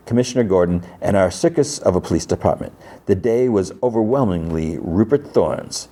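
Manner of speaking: lightly voiced broadcast reporter; radio reporter. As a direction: read it out like a radio news report. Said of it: "Hattie's broadcast over the radio".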